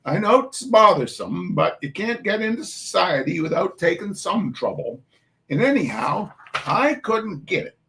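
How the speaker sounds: Maine-flavoured Irish mum, brisk; Maine-tinged dialect. Acted. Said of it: "veer over into Maine accent".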